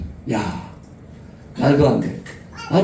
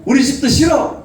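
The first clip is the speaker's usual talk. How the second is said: mock child tantrum; 6 semitones higher than usual. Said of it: "이렇게 할 수 있지만은".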